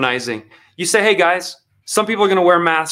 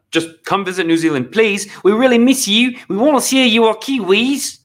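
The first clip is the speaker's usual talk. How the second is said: lightly voiced mock-sweet leader begging tourists; mock pleading; 5 semitones higher than usual. Commentator lightly mocking the leader's plea for visitors. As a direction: beg sweetly, tongue in cheek.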